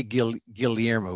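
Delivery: Guillermo pronounced "Gil-yermo", L and Y both heard; Filipino double-L Guillermo. Shown as a demonstration. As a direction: keep the L before the Y in Guillermo. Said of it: "We say the L and the Y".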